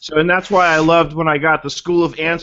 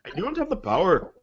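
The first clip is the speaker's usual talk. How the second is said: put-on playful Scottish accent with a swooping tune; mock Scottish accent; 3 semitones higher, 6 dB quieter than usual. Host redoing Scotty's line for colleagues, mock Scottish accent. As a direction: put on a hammy Scottish burr. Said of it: "Or Scottish, that's right".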